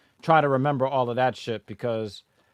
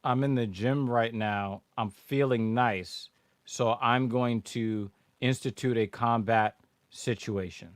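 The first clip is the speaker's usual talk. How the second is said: mocking imitation; 4 semitones lower, 7 dB quieter, slower than usual. Repeats clip guy mockingly.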